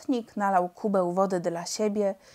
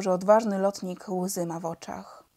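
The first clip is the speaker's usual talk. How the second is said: plain reading voice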